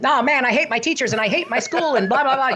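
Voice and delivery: put-on high, fast griping kid voice; little kid. Ventriloquist voicing a kid who hates school, high impish voice. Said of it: "if it's a little kid".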